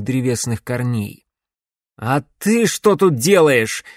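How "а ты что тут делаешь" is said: startled outburst. A narrator's reading. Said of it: "взвился Грановский".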